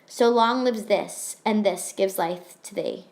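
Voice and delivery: measured, deliberate recitation of a sonnet; poem reading. Acted. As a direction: read it like verse, letting each line land. Reads the sonnet aloud.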